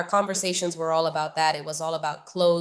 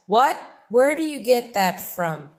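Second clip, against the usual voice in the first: shocked; 3 semitones higher, 6 dB louder than usual. Retold or imitated. Friend shocked by the gossip.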